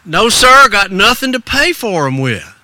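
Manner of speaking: put-on high, folksy boy's answer; lightly voiced poor country lad; reply like a polite youngster; ragged little boy. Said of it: "that ragged little boy".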